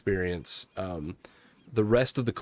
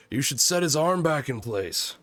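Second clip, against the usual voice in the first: mild mock yell; 4 semitones higher than usual. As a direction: call out lightly as a captain from camp. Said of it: "you just hear Captain Morrison yell".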